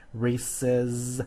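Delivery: "Races" stretched, with a long buzzing Z at the end; sounded-out EZ ending. Shown as a demonstration. Teacher asking what it sounds like, "Races" sounded out. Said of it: "what's it sound like?".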